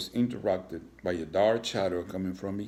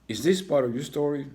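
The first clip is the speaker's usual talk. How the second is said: annoyed principal; 7 semitones higher, 6 dB louder than usual. Acted. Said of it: "Principal Horn honked".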